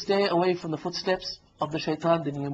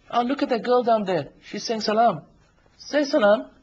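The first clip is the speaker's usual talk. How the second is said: higher-pitched tempter egging someone on; Shaitan; 4 semitones higher than usual. Acted. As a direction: point her out as an eager tempter. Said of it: "He comes to you and say".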